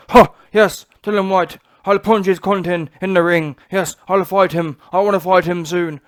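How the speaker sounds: loud, brash boxer voice with a grunted huh; mock Fury trash talk, punchy and loud; Tyson Fury impression. Mocking Fury calling out Dillian Whyte, loud brash impression. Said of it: "when Tyson Fury is sitting here saying".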